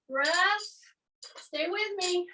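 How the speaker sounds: normal talking voice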